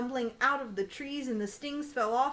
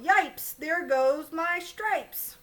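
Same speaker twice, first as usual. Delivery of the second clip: higher, louder slow yelp; zebra yelling; 6 semitones higher, 4 dB louder, much slower than usual. Acted. Zebra losing its stripes, loud high yelp. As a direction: yelp yipes. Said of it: "The zebra yelled".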